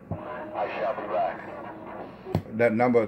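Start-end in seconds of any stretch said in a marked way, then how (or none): 0.1-1.4 slow, drawn-out mock movie-villain line; mock tough guy. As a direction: drag it out like a cheap action hero. Mocking the rival's catchphrase.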